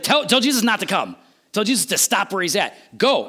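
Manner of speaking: urgent orders with a touch of panic; freaking out. Retold or imitated. Centurion urgently sending his friends to stop Jesus, mock freaking out. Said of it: "he's freaking out".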